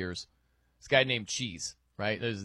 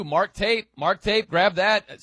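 excited call; 5 semitones higher, 5 dB louder, slower than usual. Retold or imitated. Excited call to mark drops.

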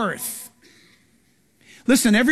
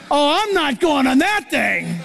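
put-on little girl refusing; 2 semitones higher than usual. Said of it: "So she's standing there".

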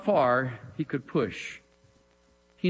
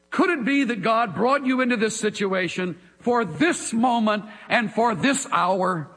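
fervent preaching; 6 semitones higher than usual. Acted. Preacher urging his listeners at full force. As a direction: press each point on the congregation.

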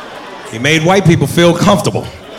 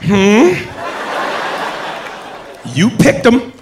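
mock white coworker; 5 semitones higher, much slower than usual. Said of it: "looking at us like".

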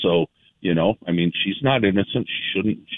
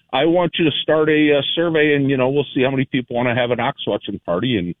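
sarcastic; 4 semitones higher than usual. Real, not acted. Caller pitching a watch party to the host, sarcastic. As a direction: propose it with deadpan sarcasm as it winds down. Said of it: "The sarcasm".

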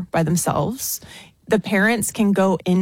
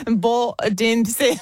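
bad Australian accent; 3 semitones higher than usual. Shown as a demonstration. Guest finishing her Aussie accent attempt, shouting and laughing. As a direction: push through a terrible Australian accent. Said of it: "Go on".

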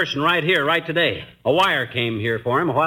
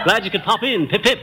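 mock Bond Street English; affected British accent, brisk and bossy; put-on British accent; 4 semitones higher than usual. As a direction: ham up an English gentleman. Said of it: "this Bond Street brogue is his idea of hospitality".

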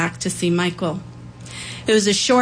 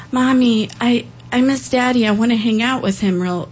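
put-on sad little girl; 4 semitones higher than usual. Small girl crying to mom.

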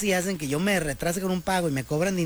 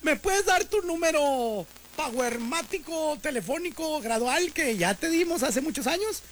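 slow, higher robotic phone menu voice; bank phone machine; 8 semitones higher, slower than usual. Retold or imitated. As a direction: mimic a bank's automated line, dragging the words. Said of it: "me dice". (voz aguda y lenta de contestadora automática del banco)

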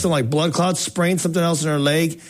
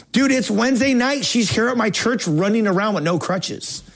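imitating a thrilled youth pastor, pitched high; amazed excitement; 7 semitones higher than usual. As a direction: report the miracle in high-pitched astonishment. Pastor's amazed reply, retold.

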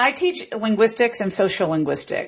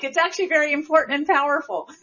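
higher-pitched imitation of a student; students correcting parents; 6 semitones higher, faster than usual. Students defending "like" to parents, imitated in a higher voice. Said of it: "they tell their parents".

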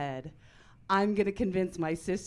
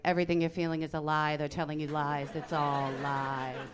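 low dismissive dad voice; 4 semitones lower than usual. Retold or imitated. Husband dismissing Christian daughter.

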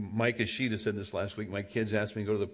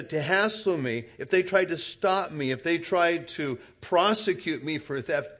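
ordinary delivery

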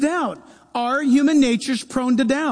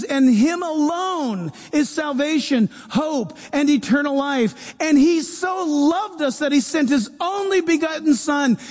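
earnest confession of faith. Retold or imitated. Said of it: "The moment you say".

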